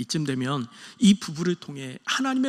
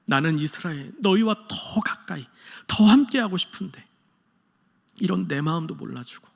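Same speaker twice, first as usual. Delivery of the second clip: hurt, roundabout. Retold or imitated. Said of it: "서운함을 빙빙 돌려서 표현하는".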